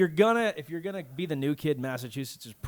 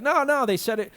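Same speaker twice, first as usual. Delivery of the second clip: put-on defensive young guy; 9 semitones higher, 7 dB louder than usual. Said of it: "He's like".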